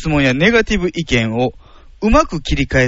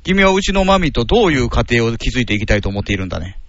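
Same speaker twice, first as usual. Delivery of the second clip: lightly voiced lower father role; a hint of a formal, interrogating dad; stern father; 4 semitones lower, faster than usual. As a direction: play a girlfriend's father questioning the suitor. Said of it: "お父さん".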